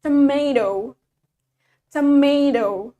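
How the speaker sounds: tomato drawn out as a teacher's British example; tomato said with deliberate, lengthened syllables; British pronunciation. Shown as a demonstration. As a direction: model "tomato" slowly for students to copy. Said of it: "In British accent, we say it".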